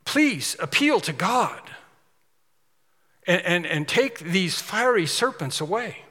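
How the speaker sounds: slow, pleading voice of the crowd; begging people. Retold or imitated. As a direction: plead slowly with Moses to take them away. People begging Moses for help.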